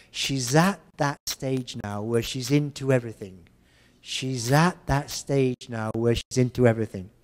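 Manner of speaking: "She's at that stage now" said as a smooth glottalized run; native speed. Shown as a demonstration. Teacher models the sentence at native speed. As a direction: say it fast and linked. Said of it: "this is how we're gonna say it".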